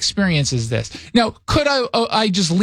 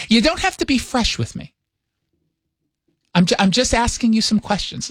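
higher, miffed New York mom impression; mock-offended mother with New York accent; mother's New York accent; 4 semitones higher than usual. Mother scolds son for being fresh, mock-offended New York accent. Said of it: "Does your mom actually have a New York accent".

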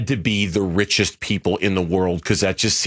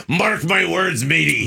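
pirate voice; 5 semitones higher, slower than usual. Pretend. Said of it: "You felt like a pirate".

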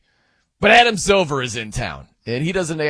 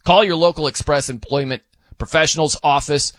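measured radio sponsor read. Acted. Radio host pitching an employment agency to job seekers, ad read. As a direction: read the copy as a live commercial, punching key phrases.

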